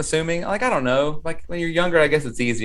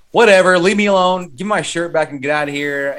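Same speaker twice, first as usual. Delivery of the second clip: pissed off; 3 semitones higher, 4 dB louder than usual. Retold or imitated. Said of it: "he's just pissed off".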